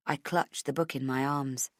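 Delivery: usual speaking voice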